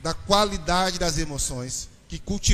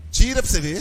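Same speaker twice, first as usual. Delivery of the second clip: wife's mock threat; 4 dB louder, faster than usual. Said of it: "minha mulher quase me mata".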